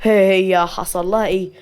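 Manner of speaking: worried, with a touch of tension; tense. Acted. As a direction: ask it anxiously, drawing it out. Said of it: "سيف بتوتر".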